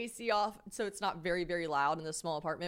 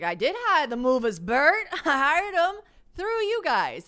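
higher, louder, slow, laughing through it; laughing disbelief; 8 semitones higher, 9 dB louder, slower than usual. Retold or imitated. Insisting she hired movers.

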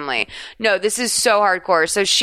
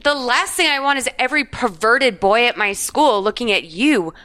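higher, hammed-up jealous teen rant; mock jealous rant; 4 semitones higher than usual. Mocking her teen self scolding a pop singer, a hammed-up jealous rant. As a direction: scold the singer like a bitter fifteen-year-old.

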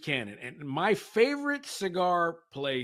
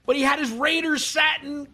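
mock exasperated shout; 10 semitones higher, 7 dB louder than usual. Real, not acted. Ribbing the Raiders owner loudly.

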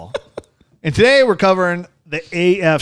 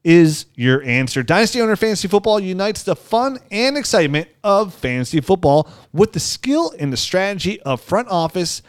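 upbeat sponsor read, leaning on the brand name. Acted. Host reading the sponsor spot to listeners, upbeat ad voice. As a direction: sell it like a podcast ad spot.

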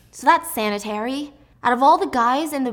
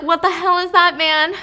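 alarmed outburst; 8 semitones higher, 7 dB louder than usual. Retold or imitated. Wylan alarmed.

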